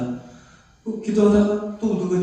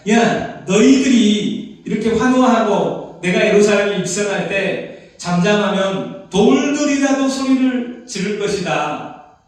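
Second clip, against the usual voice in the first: louder, slow proclamation of "돌들이라도 소리를 지를 것이다"; declaring Jesus' words; 5 dB louder than usual. Retold or imitated. Preacher quoting Jesus to the crowd, loud and slow. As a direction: proclaim it slowly and loud like scripture. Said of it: "누가복음 십구 장 사 절에 보니까".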